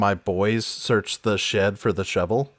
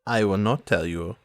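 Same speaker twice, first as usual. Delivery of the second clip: a low purring tease; coy mock-scolding villainess; lower, coy teasing; 5 semitones lower, 4 dB quieter than usual. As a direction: scold him playfully, low. Sans Serif teasing refusal.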